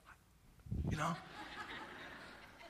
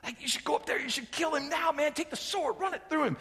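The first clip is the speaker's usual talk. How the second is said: hushed urging; 8 semitones higher, 7 dB quieter than usual. Retold or imitated. Men urging David in cave.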